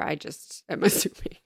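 sheepish whispered admission. Real, not acted. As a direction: whisper it, embarrassed.

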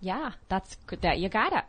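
put-on Minnesota accent. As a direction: play it lightly Minnesotan. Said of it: "that was a Minnesota accent".

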